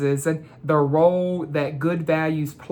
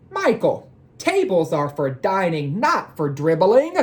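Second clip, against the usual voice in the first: scolding mom. Acted. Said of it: "made his mother tell him things like".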